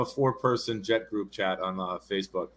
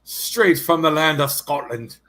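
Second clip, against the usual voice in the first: booming circus announcer intro; ringmaster; 4 semitones higher, 6 dB louder than usual. Acted. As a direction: announce him like a big top ringmaster.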